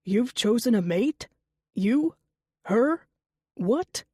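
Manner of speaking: sputtering in shock; stunned disbelief. Acted. Kian stunned by mate news.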